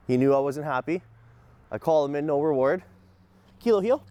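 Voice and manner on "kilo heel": 1 firm command. Real, not acted. Commanding dog after correction.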